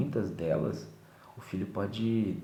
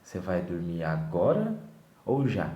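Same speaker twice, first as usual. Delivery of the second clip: louder mock-stern question, rising on agora; mock stern choice; 5 dB louder than usual. Parent mocking positive parenting, louder mock-stern question. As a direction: play the parent with a fake choice. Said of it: "Educação positiva que fala".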